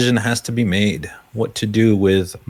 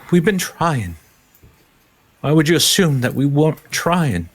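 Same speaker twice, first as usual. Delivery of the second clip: higher-pitched, affronted disbelief; incredulous; 5 semitones higher than usual. Acted. Survivor answers a doubting traveler, incredulous. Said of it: "looks at you almost incredulously".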